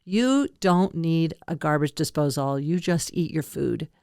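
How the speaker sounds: lightly imitated Hong Kong landlady, slow and low; slow, stern hint of a Hong Kong accent. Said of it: "In a very thick Hong Kong".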